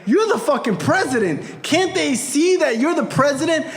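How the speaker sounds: high, impassioned rant on someone's behalf; fierce proud outrage. Retold or imitated. Friend translates the father's question, fierce proud outrage. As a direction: protest like an indignant proud father. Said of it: "He says".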